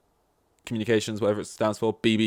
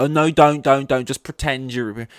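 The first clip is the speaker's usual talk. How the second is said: louder, higher mocking of a nagging adviser; mock pushy advice; 4 semitones higher, 5 dB louder than usual. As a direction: ham up a fussy do-gooder begging you to stop. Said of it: "Instead of like".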